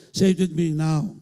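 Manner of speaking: rallying call to repeat. Shown as a demonstration.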